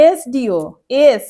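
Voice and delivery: এসডিও sounded out as "es-dee-o", then এস alone; vowel-first S. Shown as a demonstration. Teacher showing the sound, এসডিও then এস with the vowel first. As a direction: let the "e" lead in এসডিও and এস. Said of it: "উচ্চারণটা কি হচ্ছে?".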